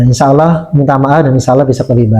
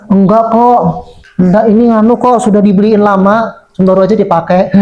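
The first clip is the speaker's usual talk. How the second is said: put-on shy child; 4 semitones higher than usual. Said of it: "Dia langsung gini".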